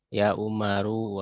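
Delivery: "Ya Umaru" slowly, with the final u of Umaru sounded; slow demo. Shown as a demonstration. Teacher models the call ending in u, slowly. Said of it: "contohnya ya".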